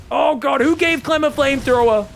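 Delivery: loud, high mock-outraged shout; excited shout. Real, not acted. Caster shouting to viewers about the harass, high excited yell. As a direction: cry out as if the play is outrageous.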